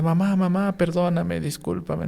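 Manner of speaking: a hint of a small child pleading with mama. Child voiced in mother story.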